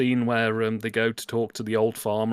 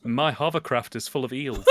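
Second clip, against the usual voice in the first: quoting through laughter; 2 semitones higher than usual. Pretend. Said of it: "Your hovercraft?".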